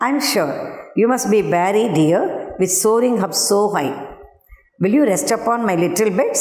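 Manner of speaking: lightly voiced coaxing spider. Teacher reading the spider's invitation to the fly, mildly coaxing. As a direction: coax the fly gently, a mild put-on. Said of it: "said the spider to the fly".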